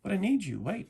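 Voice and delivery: high, loud pleading cry; desperate plea. Acted. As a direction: call after her, begging. Lizard begs her to stay.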